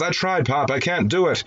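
a hint of a son protesting to his father; lightly voiced young son. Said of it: "And the son says".

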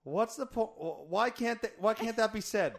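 high, loud laughing rant. Real, not acted.

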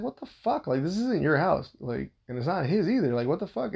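high, exasperated retold outburst; pissed off. Husband protesting the father-in-law in his house, pissed off. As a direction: replay the complaint with rising irritation. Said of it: "I'm already getting pissed off right now".

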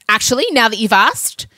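high, slowing, pointed complaint; exasperated venting. Retold or imitated. Mother ranting to Scott on the phone about her daughters, exasperated. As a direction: land hard on each damning adjective.

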